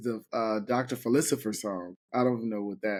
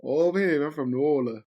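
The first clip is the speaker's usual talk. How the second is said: put-on New Orleans accent; 4 dB louder than usual. Co-host asks her to repeat it, in a New Orleans accent. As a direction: lean into a local New Orleans voice, playful. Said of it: "that's a good accent".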